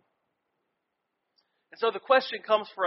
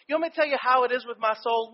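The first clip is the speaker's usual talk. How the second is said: "You want me to tell you how it is with my soul?" thrown back higher and fast; exasperated retort; 4 semitones higher, faster than usual. Retold or imitated. Stressed student throwing the question back at his mentor, fast and exasperated. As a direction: snap the question back, fed up and hurried.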